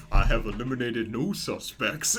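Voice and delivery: slow, drawn-out southern drawl; southern accent. Retold or imitated. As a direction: imitate a detective's southern accent, stretching the vowels. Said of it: "southern accent".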